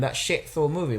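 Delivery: "shit" picked out with emphasis; stress on shit. Real, not acted. Dismissing the Thor film to co-host, emphasis on "shit". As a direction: lean on the word "shit". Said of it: "Emphasis on the shit".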